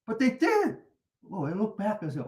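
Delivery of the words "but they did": higher, louder neighbour's comeback; imitated retort. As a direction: fire it back loud and high. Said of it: "And then he said".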